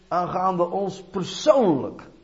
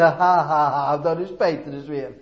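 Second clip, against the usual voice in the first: mock scoffing laugh, starting loud; put-on "ha, ha" of a mocking bystander; mock jeering; 4 dB louder, slower than usual. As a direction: imitate scoffers poking fun. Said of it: "nu is het makkelijk om te zeggen".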